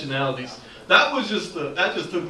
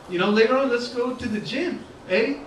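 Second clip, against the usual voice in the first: put-on higher-pitched Latin American accent; 6 semitones higher than usual. Friend suggesting the gym, Latin American accent. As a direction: lift it into a Latin American accent, rising at the end. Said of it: "a country in Latin America".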